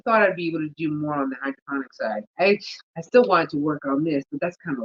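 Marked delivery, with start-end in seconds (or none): none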